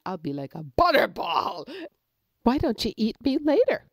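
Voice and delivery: high, loud nervous pleading; frightened pleading rabbit. A narrator's reading. Rabbit pleading with the wolf, high and scared. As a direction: beg for your life with a fake smile. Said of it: "And Conejito said".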